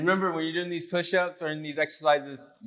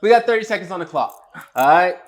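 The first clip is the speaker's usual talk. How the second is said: hyped announcer; 4 semitones higher, 7 dB louder, faster than usual. Real, not acted. Host starts timed push-up challenge.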